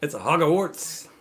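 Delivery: put-on slow, laughing take on an Australian accent; a light, laughing Australian accent; mock Aussie accent. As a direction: drag out Hogwarts like a joking Aussie. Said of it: "that's an Aussie thing".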